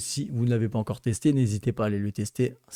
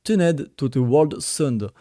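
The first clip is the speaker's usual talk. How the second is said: slow English title in a heavy French accent; apologetic French accent on English words; slower than usual. Real, not acted. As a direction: read the English name slowly with a French accent. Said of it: "désolé pour mon accent anglais".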